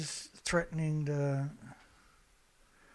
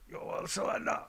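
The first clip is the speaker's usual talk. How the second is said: hushed, sneering repeat of the question; mocking whisper; 3 semitones higher than usual. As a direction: breathe it out in mockery. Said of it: "Who talks like that?".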